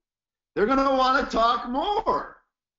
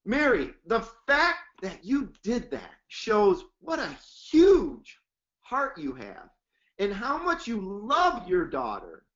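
heartfelt praise. Shown as a demonstration. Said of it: "it's the tonality".

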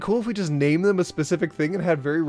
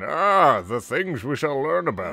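pompous philosopher voice; slower than usual. Pretend. Mock lofty philosopher voice.

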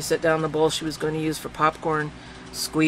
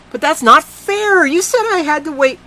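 upset protest; 12 semitones higher, 10 dB louder than usual. A narrator's reading. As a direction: plead with hurt in the voice.

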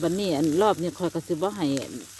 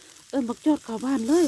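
slow, higher mock grandpa voice; grandpa's order; 6 semitones higher than usual. Vlogger imitates grandpa ordering the dog brought in, slow and high. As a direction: draw out grandpa's command slowly. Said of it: "ว่าซั่น".

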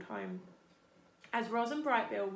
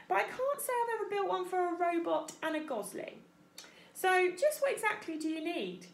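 higher-pitched beaver builder voice; raised, businesslike beaver voice; gruff beaver; 9 semitones higher than usual. Acted. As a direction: size up the job as a beaver tradesman. Story character voice, Mister Beaver.

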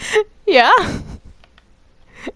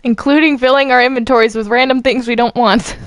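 worked up; 4 semitones higher than usual. Real, not acted. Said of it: "Slow down. Calm yourself".

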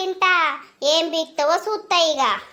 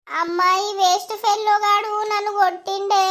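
put-on child voice; 5 semitones higher than usual. Child complains to mother.

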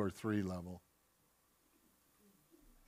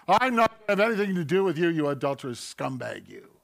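contemptuous rejection; 3 dB louder than usual. Acted. Preacher acting a judgmental Christian rejecting a brother, fast and scornful. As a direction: spit it at him and turn away.

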